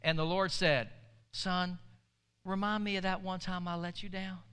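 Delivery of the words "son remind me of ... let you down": softly needling, mock-innocent question; gently sarcastic fatherly reminder; quiet, understated sarcasm. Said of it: "You're doing it again, aren't you?".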